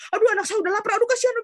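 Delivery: high fretful cry of a flustered mum; panicky mother. Retold or imitated. Lecturer mocking a panicked nursing mother, high and flustered. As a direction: mimic a mother fussing in a rush. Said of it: "bukan ibunya yang ikutan panik".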